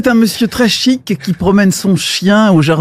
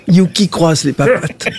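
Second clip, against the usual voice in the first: "Yuki croise les papates" dropped lower, more insistent; repeated dog command; 5 semitones lower than usual. Acted. Owner to a disobedient dog, lower repeated command.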